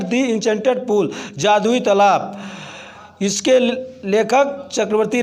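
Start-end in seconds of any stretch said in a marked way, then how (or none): 0.0-1.1 "The" said "dee" before Enchanted. Shown as a demonstration. Teacher applying the vowel rule to the title, "The" as "dee". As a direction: read "The" with a long ee, "dee Enchanted". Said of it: "ऐसे ही हम इसका उच्चारण".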